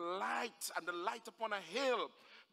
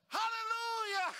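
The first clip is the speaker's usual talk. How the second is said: very high, loud praise cry; elated father whooping in praise; shouted hallelujah; 12 semitones higher, 6 dB louder than usual. Acted. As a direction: let out an ecstatic shout. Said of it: "he shouted".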